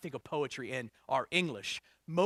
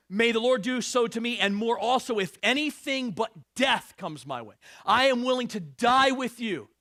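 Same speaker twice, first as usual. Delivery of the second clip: loud, raised preaching delivery; scripture proclamation; 6 semitones higher, 7 dB louder than usual. Acted. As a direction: proclaim the vow with force. Reads scripture aloud with force.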